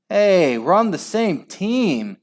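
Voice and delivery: high, indignant yelp. A narrator's reading. Jim complaining to his own teammate, yelping. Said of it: "yelped Jim".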